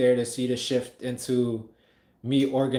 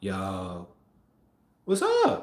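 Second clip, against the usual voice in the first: low, groggy, sleepy, barely awake voice; 4 semitones lower than usual. Retelling her answering his phone call, imitating a groggy voice. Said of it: "Her sounding mad groggy, like she just woke up".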